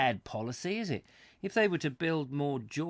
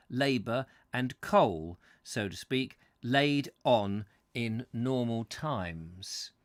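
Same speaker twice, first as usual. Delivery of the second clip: measured, emphatic book reading; story narration. A narrator's reading. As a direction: read the prose out with deliberate phrasing. Reads book aloud to listeners.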